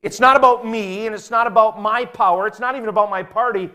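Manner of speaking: high, loud earnest declaration; impassioned statesman's appeal; ideal statesman. Retold or imitated. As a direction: speak up as a selfless statesman. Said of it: "statesmen who will say".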